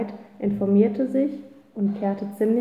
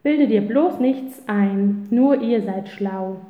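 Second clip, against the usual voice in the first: touchy retort; 3 dB louder, slower than usual. Acted. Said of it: "Emil wurde empfindlich".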